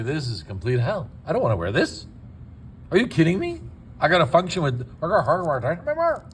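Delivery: lightly voiced patient with a mouthful of denture, slurring a little; mumbling patient. Patient complains to the technician, mild slurred mumble. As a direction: play a patient who hates the fit, words slightly garbled. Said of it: "They're gonna talk like that".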